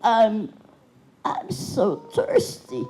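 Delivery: lightly voiced thirsty old man; a hint of a creaky old man asking for a drink. Shown as a demonstration. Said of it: "old, old man".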